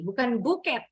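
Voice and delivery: buket said with the T sounded; wrong way for English: buket with T; Indonesian buket. Shown as a demonstration. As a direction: give buket a clear final T, Indonesian style. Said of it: "Buket bahasa Indonesia".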